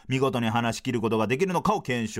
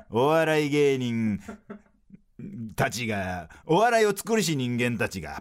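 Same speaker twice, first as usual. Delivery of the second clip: sports commentary style. Pretend. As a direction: build the drama like a final. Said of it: "スポーツの実況風にフリートークせよ".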